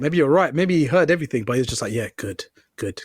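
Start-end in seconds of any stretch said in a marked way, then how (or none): 1.9-3.0 soft flat yeah good; quiet flat mumble. Retold or imitated. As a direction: mumble it off absent-mindedly. Oblivious guy voiced in story.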